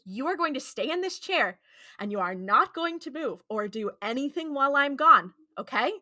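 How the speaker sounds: mock-stern, emphatic telling-off; retold bossy warning, hitting each word; stern order. Dean sternly orders Sam, retold.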